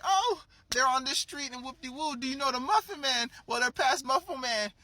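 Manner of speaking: high, put-on voice blurting directions; mock-flustered, high-pitched character; panicked victim imitation. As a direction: play someone giving up information under attack. Victim blurts directions while being beaten.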